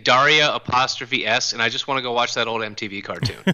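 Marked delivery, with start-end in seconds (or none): 0.0-1.5 "Daria apostrophe S" as DAR-ee-uh, then the punctuation spoken; misheard pronunciation. Retold or imitated. Co-host on mishearing the game title, "Daria" as DAR-ee-uh. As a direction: say "Daria" like the girl's name, DAR-ee-uh. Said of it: "it sounds like you're saying".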